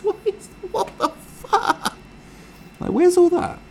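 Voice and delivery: breathy, aghast stammer stretched out slow; slow gasping mock shock; bewildered. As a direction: splutter it in hammed-up disbelief. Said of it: "bewildered, you're like".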